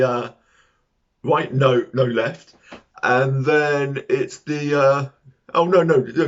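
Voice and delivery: hesitant stranger pointing the way, mate; confused local giving directions. Acted. Local man to lost tourist, flustered and unsure.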